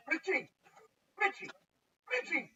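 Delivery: loud, high summons; calling out. Retold or imitated. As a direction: holler the name across the shop. Boss calling him by false name.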